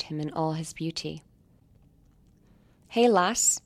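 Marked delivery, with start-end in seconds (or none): 2.9-3.6 put-on higher, louder, a light English accent for Neil; acquired English accent. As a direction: greet her cheerfully in a fresh English accent. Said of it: "I smile back at his recently acquired accent".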